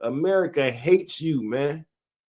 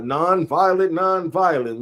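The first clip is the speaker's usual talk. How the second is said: lightly voiced peace advocate; 3 semitones higher than usual. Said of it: "The other one was".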